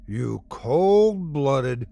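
slow words through laughter; gurgling laugh. A narrator's reading. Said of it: "Kiefer gurgled".

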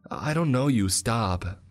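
put-on high, loud child's scream; terrified girl screaming. A narrator's reading. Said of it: "she screamed".

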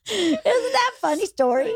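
high voice just out of a laughing fit; real, breathless amusement; tickled by own story. Real, not acted. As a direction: squeak it out, still recovering from laughter.

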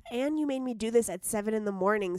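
hoarse from a cold; sick voice. Real, not acted. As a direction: talk through a sore throat. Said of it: "she sounds like a dying horse over there".

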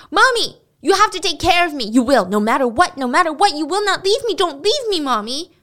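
high-pitched, desperate pleading cry; frantic, childlike shouted plea; acted shouting. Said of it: "Al started shouting".

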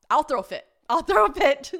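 high, loud repeated threat; mock tantrum. Skier may have to ski down, mock tantrum. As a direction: build into a hammed-up meltdown.

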